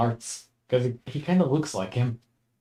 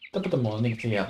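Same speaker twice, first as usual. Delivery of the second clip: Irish accent; faster than usual. Shown as a demonstration. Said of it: "like this".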